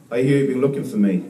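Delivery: a hint of the smooth talker; smooth pickup voice. Comic pickup man crooning a line at the prettiest girl. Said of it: "That's smooth, isn't it?".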